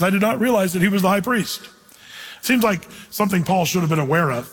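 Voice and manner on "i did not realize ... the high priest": quick, everyday reading of "I did not realize"; modern ESV wording. Shown as a demonstration. Preacher reads the ESV line quickly to compare. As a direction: toss off the modern version quickly. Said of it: "the E S V says".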